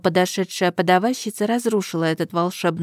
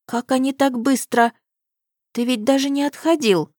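amazed question; 6 semitones higher than usual. A narrator's reading. Amazed at quick guards.

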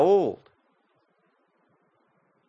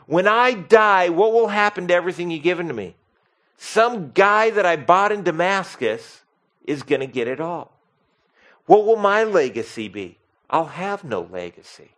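anguished questioning; 5 semitones higher than usual. Retold or imitated. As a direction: plead over a lost legacy. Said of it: "Abram basically says to the Lord".

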